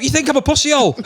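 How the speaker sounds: squeaky incredulous laugh; high laughing disbelief; laughing mock outrage. Real, not acted. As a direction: squeal the question through laughter.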